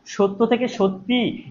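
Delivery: slow সত্য থেকে সত্যি, high with a long final ই; teacher slowly sounding the ই that ends সত্যি; demonstrated pronunciation. Shown as a demonstration. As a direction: spell out the change by stretching the "ee" of সত্যি. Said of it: "ই ধ্বনিটা কখন উচ্চারণ করছি?".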